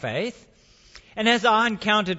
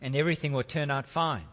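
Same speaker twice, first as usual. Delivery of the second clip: calm voice; 6 semitones lower, 4 dB quieter than usual. Acted. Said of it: "Calm voice said".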